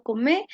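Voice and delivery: "come" with no final R, ending on the E; "come" for "comer", the R left off; "come" said without its R; dropped R. Shown as a demonstration. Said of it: "la eliminación de la R".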